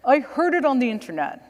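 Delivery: imitating the lawyer's Long Island accent, mildly; the lawyer pitching the idea, in a light Long Island accent. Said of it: "I'm trying to do the accent".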